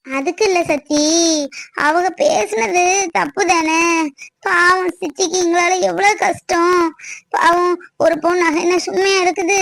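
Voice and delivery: tearful. Acted. Sister tells Sathi how sorry she feels for aunt, tearful. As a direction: drag out the words in sorrow. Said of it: "இதுக்கெல்லாம் போட்டு அழுதுட்டு இருக்க".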